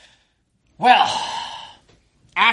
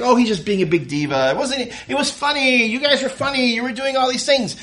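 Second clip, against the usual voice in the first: Shannon; 6 semitones higher than usual. Retold or imitated. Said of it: "And Shannon's like".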